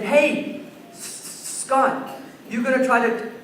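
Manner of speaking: imitating a bully's teasing stutter; mean mock stutter. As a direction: taunt by tripping on the first sounds. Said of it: "They were acting sort of mean".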